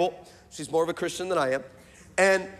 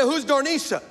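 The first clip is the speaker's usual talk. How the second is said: higher, pointed question; wife's demand; 6 semitones higher than usual. Retold or imitated. Wife demands to know who Darnisha is, higher. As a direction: ask it like the wife who caught him. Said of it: "She said".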